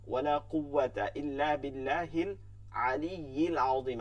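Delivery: slow আলিয়্যিল আযীম with throat ain; careful recitation. Shown as a demonstration. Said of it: "আইন". (আইন হরফের স্পষ্ট উচ্চারণ)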